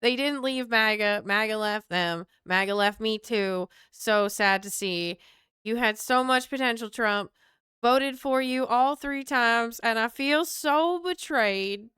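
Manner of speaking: put-on Southern accent of a let-down supporter; wounded voter in a mock Southern accent. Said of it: "why I'm doing this accent".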